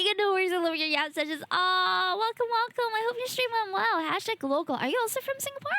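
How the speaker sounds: high, sweet VTuber voice; cute anime streamer. Real, not acted. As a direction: lift into a cutesy welcome. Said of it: "My VTuber voice will come back to me".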